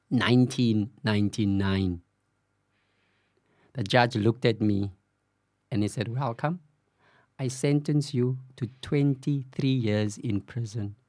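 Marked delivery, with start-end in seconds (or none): 6.1-10.9 slow, softer, solemn judge's voice; retold judge's sentence. Judge sentencing the sixteen-year-old in court, slow and solemn. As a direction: read out the sentence slowly and gravely, a touch quieter.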